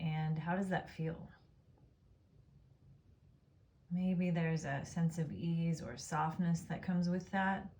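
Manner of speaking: calm, unhurried Yoga Nidra guidance; guided meditation. Real, not acted. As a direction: guide them gently into rest, pausing between phrases. Leads a Yoga Nidra practice.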